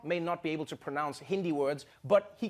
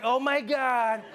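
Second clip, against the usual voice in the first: high-pitched mock wailing; comic haunted freak-out, building to a drawn-out wail; hammed-up panic; 7 semitones higher than usual. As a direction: beg for forgiveness in fake terror. Acts Trump terrified by cows.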